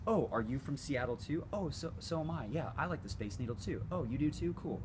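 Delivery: overly agreeable, gushing along; eager agreeable chatter. Retold or imitated.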